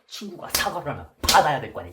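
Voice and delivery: bully shouting down his friend in the hallway; angry yell. Retold or imitated. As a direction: yell that he must accept the apology.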